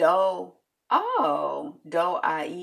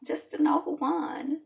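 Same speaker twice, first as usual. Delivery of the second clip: whisper; 7 semitones higher, 4 dB quieter than usual. Real, not acted. Aside about not caring who won.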